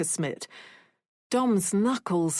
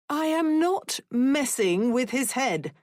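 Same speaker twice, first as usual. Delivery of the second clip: exclaiming; 5 semitones higher than usual. A narrator's reading. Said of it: "Mother exclaimed".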